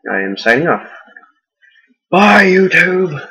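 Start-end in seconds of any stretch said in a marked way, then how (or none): 2.1-3.2 high, drawn-out, loud farewell; cheery goodbye. Real, not acted. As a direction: sing out a bright goodbye. Signing off loudly.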